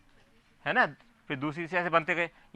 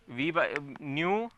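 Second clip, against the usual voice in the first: very slow dictation; 4 semitones lower, 4 dB quieter, much slower than usual. Shown as a demonstration. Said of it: "teacher dictating a formula".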